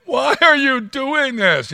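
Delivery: powerful voice. Retold or imitated. God confronting Saul with power, commanding and loud. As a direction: make it a mighty challenge, not a plea. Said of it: "it's not the voice of a victim".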